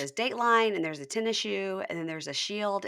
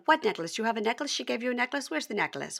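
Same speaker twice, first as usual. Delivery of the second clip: mock fixated questioning; 5 semitones higher than usual. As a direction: run of short imitated questions. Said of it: "all she could focus on".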